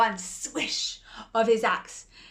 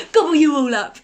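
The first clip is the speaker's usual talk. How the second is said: big loud roar; loud hammed-up wolf roar; 5 semitones higher, 14 dB louder, faster than usual. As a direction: roar it to scare. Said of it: "roared the wolf".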